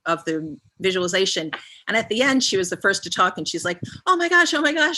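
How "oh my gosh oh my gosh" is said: high, loud breathless oh my gosh; the woman bursting out in retold shock; excited gasp. Attendee reliving her realization, excited and high. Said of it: "she gasped".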